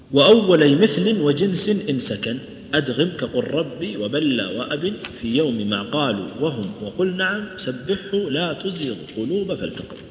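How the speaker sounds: slow, measured didactic poem; unhurried metrical reading of a rule poem; verse recitation. Shown as a demonstration. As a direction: recite the tajweed verses in a steady lilt.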